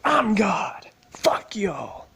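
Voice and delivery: high, loud mock-megalomaniac yell; triumphant shout. Dropkicking all rivals to be God, triumphant mock shout. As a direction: bellow it as a gloating god. Climax of imagined rampage.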